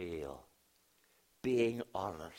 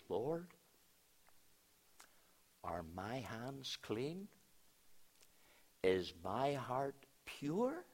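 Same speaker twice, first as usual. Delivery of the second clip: searching prayer; 4 semitones higher, slower than usual. Retold or imitated. Young man's searching prayer, retold.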